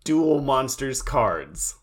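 slow, overarticulated words; each word spelled out slowly; slow, careful enunciation. Shown as a demonstration. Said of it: "There it is".

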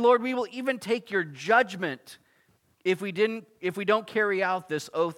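acted-out fervent promise; solemn vow. Acting out people's vow to God.

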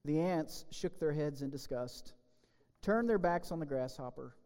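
lively storybook reading; children's story read with gentle drama. Acted. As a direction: tell the fable to kids in church. Reads fable to the children.

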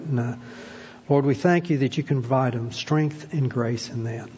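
earnest, unhurried prayer voice; pastoral prayer. Acted. Pastor praying aloud for church families, earnest and steady. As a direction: pray over the church families, gently.

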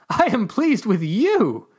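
high, loud, slow shout; shouted back. Acted. Chevron yells up while laughing, loud. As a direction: holler back up, delighted.

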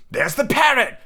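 high, delighted exclamation; excited cry. A narrator's reading. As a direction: cry out as if spotting an old friend. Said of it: "cried Scrooge".

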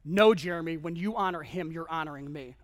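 God's gentle answer. Retold or imitated. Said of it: "I heard this right here".

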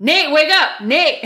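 wife calling her husband awake, urgent and loud; urgent wake-up call. Retold or imitated. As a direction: shake him awake with your voice. Waking husband over loud TV.

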